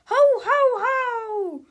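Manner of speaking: loud, high ho-ho-ho; exaggerated Christmas chortle; Santa laugh. A narrator's reading. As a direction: boom out a hammed-up Santa laugh. Santa-style Christmas laugh in comic.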